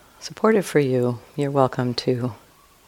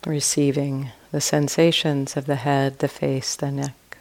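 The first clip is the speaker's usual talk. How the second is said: guided meditation. Real, not acted. Teacher guiding listeners to relax and expand awareness, calm meditation voice. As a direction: ease listeners through it, leaving long silences between short phrases.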